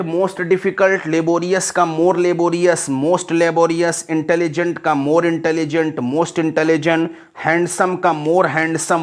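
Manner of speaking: steady recited list of forms; reading through. Shown as a demonstration. Teacher reads the whole list to class, steady recitation. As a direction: reel off the word forms in an even rhythm. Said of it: "आपको पूरा पढ़ दे रहे हैं".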